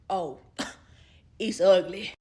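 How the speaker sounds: slow words through a laugh. Real, not acted. Laughing to viewers about his ugly messages. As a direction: laugh at how bad it is.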